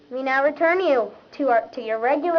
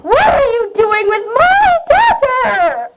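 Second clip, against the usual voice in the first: angry parent; 6 semitones higher, 4 dB louder, slower than usual. Acted. Parent confronts over daughter.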